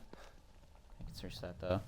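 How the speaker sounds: slow, soft whisper to himself. Real, not acted. Noticing the item is searchable after all, a slow whisper. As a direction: breathe it out slowly under your breath. Checking items while playing.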